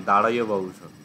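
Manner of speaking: দাঁড়াইয় said as the Persian form of Darius; Old Persian pronunciation. Shown as a demonstration. Teacher giving Darius' Persian name, demonstrated. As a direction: sound out দাঁড়াইয় carefully. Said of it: "তার উচ্চারণ হচ্ছে".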